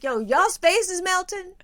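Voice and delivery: high, slowed-down mock announcement; hammed-up trippy astonishment; stoned amazement. Retelling own stoned announcement.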